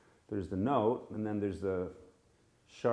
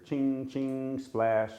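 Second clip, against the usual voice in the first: cymbal sounds; 3 semitones higher, much slower than usual. Shown as a demonstration. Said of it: "the cartels playing, we hear".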